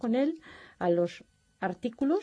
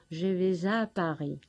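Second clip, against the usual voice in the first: ejemplo en francés. Shown as a demonstration. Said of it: "utilizo la preposición a".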